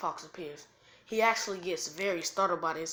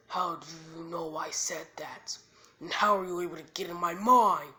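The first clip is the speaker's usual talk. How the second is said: baffled demand, swelling louder; acted disbelief getting louder; confused; 6 dB louder than usual. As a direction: build to a loud, bewildered question. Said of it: "is actually very confused by this".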